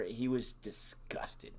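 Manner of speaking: slow hushed whisper, almost no voice. Retold or imitated. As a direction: lean in and breathe it out slowly. Retelling the character's reaction.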